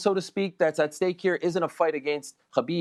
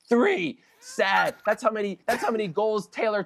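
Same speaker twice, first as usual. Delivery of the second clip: mocking jab; 6 semitones higher than usual. Real, not acted. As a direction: deliver it as a taunt. Mocking Ravens score.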